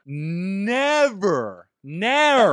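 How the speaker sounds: put-on loud, high theatrical old-English declaiming; Shakespearean. Answering cohost's question, mock-Shakespearean declaiming. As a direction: ham it up like a Shakespearean actor. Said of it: "As they would say in old Shakespearean time".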